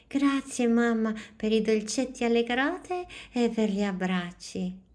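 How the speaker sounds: put-on a small girl thanking mum with joy; exclaiming little girl. A narrator's reading. Noemi thanks her mother on the way home, high and happy. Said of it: "la piccola esclamò".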